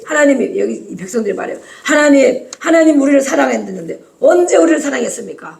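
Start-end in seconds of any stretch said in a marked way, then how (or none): 1.8-5.6 higher-pitched, challenging mock protest; acted defiance. The people answering back to God, acted defiance. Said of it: "막 이러고 대들어".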